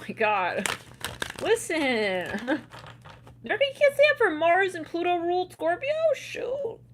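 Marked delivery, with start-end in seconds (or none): 3.4-6.8 excited outburst. Real, not acted. Excited high outburst continues.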